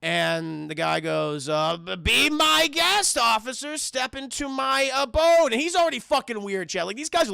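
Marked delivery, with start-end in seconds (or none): 1.8-5.5 creepy doctor voice. Retold or imitated. Creepy doctor greeting the detectives.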